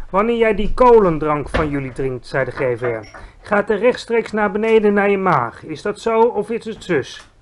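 giant voice, teacherly; patient explaining giant. Acted. Giant explaining burps to Sophie, teacherly. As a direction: spell it out step by step.

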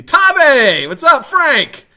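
loud, high-pitched shout-out to viewers; shouted greeting. Real, not acted. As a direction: holler hello to a friend joining. Streamer calls out greetings to viewers.

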